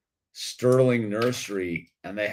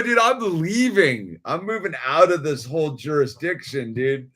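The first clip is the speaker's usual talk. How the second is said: defiant announcement; 5 semitones higher, 4 dB louder than usual. Retold or imitated. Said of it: "I go".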